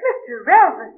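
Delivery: loud, stern call of his name; indignant shout; sharp rebuke. Acted. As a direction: scold him by name. Daughter rebukes the gardener.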